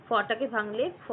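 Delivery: ordinary talk, nothing marked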